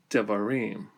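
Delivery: "devarim" with stress on the final "-rim"; accent at the end. Shown as a demonstration. Teacher shows the plural of davar, end accent. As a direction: reduce the first vowel of "devarim", accent "rim". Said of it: "accent falls at the end of the word".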